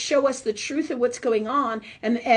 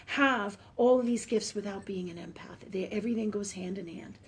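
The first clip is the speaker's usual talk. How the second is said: whisper; 3 semitones lower, 6 dB quieter than usual. Real, not acted. Medium makes a confiding point.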